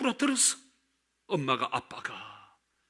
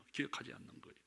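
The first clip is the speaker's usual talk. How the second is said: 기억하지 않는 거예요 repeated much softer, almost breathed; quiet echo; 3 semitones lower, 18 dB quieter, much faster than usual. Real, not acted. Preacher echoing his point to the congregation in near silence. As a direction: echo 기억하지 않는 거예요 softly to let it sink in. Repeated line, loud then hushed.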